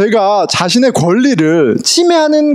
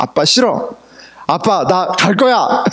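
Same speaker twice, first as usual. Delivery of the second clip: mock firm toddler. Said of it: "굉장히 단호하게".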